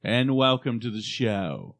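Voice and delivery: slow, announcer-style welcome; slow deliberate host welcome; show opening. Pretend. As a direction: open the show slowly, like a host.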